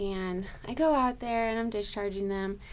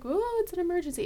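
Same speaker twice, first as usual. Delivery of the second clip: mock panic; 9 semitones higher, much faster than usual. Mocking panicked family member.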